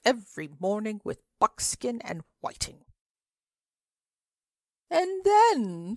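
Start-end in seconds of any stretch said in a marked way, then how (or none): 4.9-5.9 tall man speaking. A narrator's reading. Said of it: "said a tall man just opposite".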